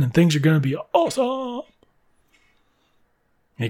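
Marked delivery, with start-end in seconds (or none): 0.0-1.6 rising to a high pitch at the end; hammed-up glee, last word stretched high; gleeful boast. Boy bragging about what he will win, gleeful. Billy boasts of winning the bet.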